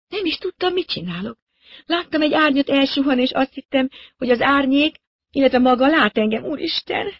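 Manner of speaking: put-on high, breathless girl's voice; a young woman pleading her innocence; frightened young woman. A narrator's reading. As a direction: voice the scared pilot girl. Narrator voices the girl.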